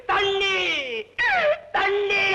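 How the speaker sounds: wailing shout for a drink, pitch thrown up high; crying out for drink. Acted. Drunk begging for liquor.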